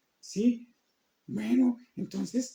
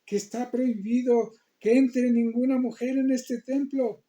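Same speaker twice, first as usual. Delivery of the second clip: louder, higher stern rebuke; angry scolding; 3 semitones higher, 5 dB louder than usual. Acted. Head priest scolding Mira for entering the temple, angry. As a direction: scold the intruder at the temple door. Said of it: "se enoja y".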